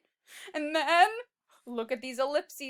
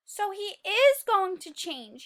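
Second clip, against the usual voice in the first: gasp, then a higher delighted line; mock surprise; 3 semitones higher, 5 dB louder than usual. Teacher gasping at the twist for the children, mock surprise. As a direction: act amazed for the kids.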